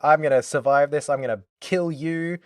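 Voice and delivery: mock heroic defiance, pumped up; bravado. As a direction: throw it in her face, fearless. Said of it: "full, like, bravado".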